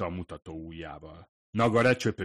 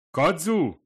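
raised, higher call; 10 semitones higher, 9 dB louder than usual. A narrator's reading. Nagare calls out to Kadzu in the kitchen, raised call. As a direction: call her from the next room. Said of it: "szólt ki a konyhába".

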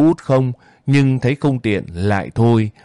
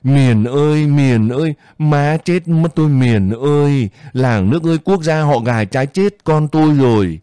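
crying out; 3 semitones higher than usual. Acted. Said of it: "tiếng Út Lịch kêu gào".

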